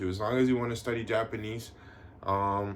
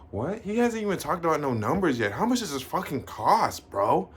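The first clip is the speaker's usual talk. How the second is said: mock impatient viewer; 6 semitones higher than usual. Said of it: "And you're like".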